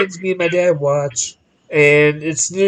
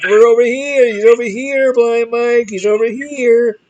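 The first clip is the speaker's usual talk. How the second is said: crowd heckling call; 6 semitones higher than usual. Retold or imitated. Crowd heckling blind wrestler.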